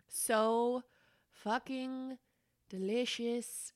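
each word drawn out, with pauses between; savouring emphasis. Real, not acted. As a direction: relish every single word. Raving about the beer just tasted.

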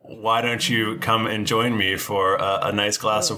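slow, lightly voiced booming stranger. Stranger at a table inviting travellers to wine, slow booming voice. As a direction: draw out the invitation at an unhurried pace. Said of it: "You hear a booming voice back".

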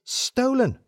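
mock-horrified; shocked. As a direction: gasp out the word, scandalised. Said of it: "say it in a shocked voice".

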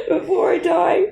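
real laugh tangled with crying; laughing through tears. Real, not acted. Vowing to find answers, to the host, laughing through tears. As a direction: laugh it out while tears come.

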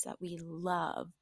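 hushed, breathy confiding whisper. Acted. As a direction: let them in on a secret. Conspiratorial aside to listeners.

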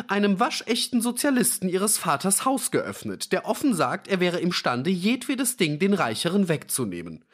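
put-on old man's high-pitched outburst; agitated interjection. A narrator's reading. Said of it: "rief der alte Fischer dazwischen".

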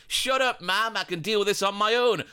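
a grown son snapping at his mum; imitating Harry Maguire to his mum. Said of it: "no doubt he probably said to her".

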